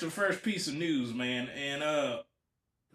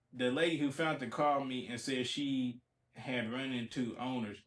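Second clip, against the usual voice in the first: low, hushed article reading; reading a quote aloud; 4 semitones lower, 7 dB quieter than usual. Acted. Host reading out the owner's account, low soft reading. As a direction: read it quietly off the page.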